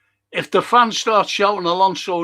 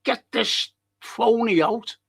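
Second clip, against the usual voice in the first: mock chant of angry fans, pitched much higher; fans calling out; 7 semitones higher than usual. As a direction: call it out like a fed-up crowd. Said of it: "people are saying".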